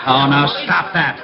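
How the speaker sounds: chuckling while brushing him off; laughing protest. Real, not acted. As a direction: laugh through the words. Rick threatens to kiss Walt.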